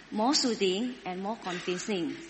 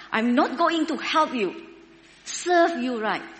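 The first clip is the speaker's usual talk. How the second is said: a hammed-up scolding sat-nav, louder and higher; mock angry GPS; 3 semitones higher, 3 dB louder than usual. Preacher imagining a rude GPS scolding the driver, mock angry. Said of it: "Do you think that ladies would say".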